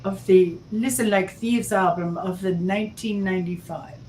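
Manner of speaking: mock German accent. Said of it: "I can't sustain a German accent".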